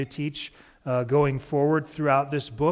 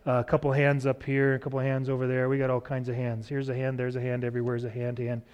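auctioneer voice; faster than usual. Pretend. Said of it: "almost an auctioneer voice".

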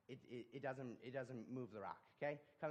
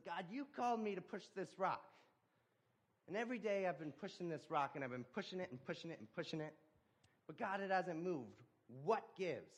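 frustrated complaint; 6 semitones higher, 4 dB louder than usual. Acted. Man confronts God, mad.

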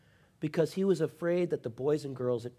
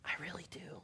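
whisper; 4 semitones higher, 14 dB quieter, faster than usual. Real, not acted. Intimate confession.

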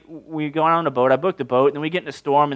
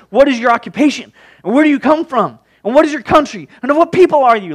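high, loud volley of questions; urgent interrogation; 8 semitones higher, 6 dB louder than usual. Acted. Sailors questioning Jonah about the storm, agitated. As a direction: fire questions in rising agitation.

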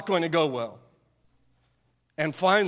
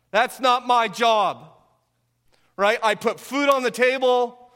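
raised, indignant protest; dismissive husband; 5 semitones higher, 3 dB louder than usual. Acted. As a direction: push the blame back at your wife, emphatic and higher. Acted husband refusing any responsibility.

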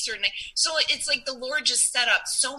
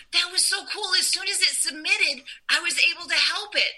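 high, bright-eyed retold excitement; excited friend; 6 semitones higher than usual. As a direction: voice her thrill, pitched up. Friend voiced in excited retelling.

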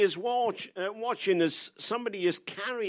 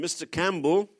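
Scottish brogue; 4 dB louder than usual. Retold or imitated. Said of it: "in his Scottish brogue".

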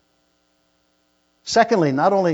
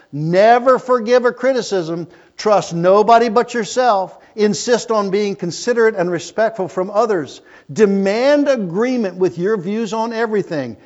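louder and higher, mocking the selfish creed; preaching at full force; 6 semitones higher, 6 dB louder than usual. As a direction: hammer out each selfish rule.

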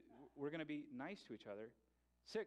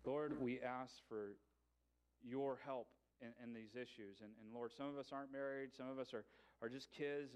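prayer. Acted. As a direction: lead the church gently in prayer. Closing prayer.

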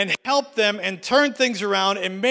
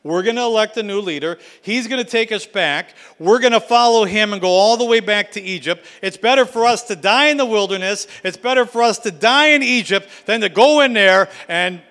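mock complaint; 4 dB louder than usual. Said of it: "And they said".

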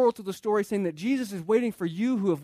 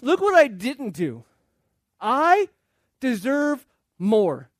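loud, higher whine, drawn slow at the end; petulant brother wanting more; whiny older son; 3 semitones higher, 5 dB louder, slower than usual. Retold or imitated. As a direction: stretch out the complaint. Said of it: "Say that with a whiny voice".

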